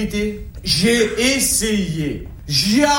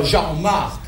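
easy-going southern Marseille accent; relaxed Marseille banter. Shown as a demonstration. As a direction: tell it as a proud Marseillais, accent and all. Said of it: "Moi je préfère dire".

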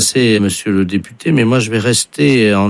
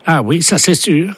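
high mock voice; 8 semitones higher than usual. Caller switches voice back.

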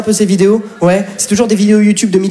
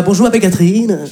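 Catherine role. Pretend. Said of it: "je suis dans mon rôle".

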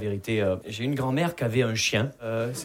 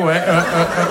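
loud, higher-pitched choking noises; imitated drowning dog; 5 semitones higher, 8 dB louder than usual. The dog in its cone in the rain, imitated drowning. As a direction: mime a dog drowning, in short loud bursts.

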